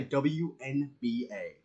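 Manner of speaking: W N B A slowly, letter by letter; mock-deliberate spelling out of W N B A; individual letters. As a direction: separate every letter in W N B A. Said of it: "he says it two individual letters".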